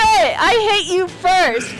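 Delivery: raging gamer. Real, not acted. Angry rage at game kill.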